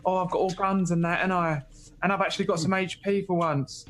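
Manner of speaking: a hint of the Archie impression. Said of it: "doing impressions of it".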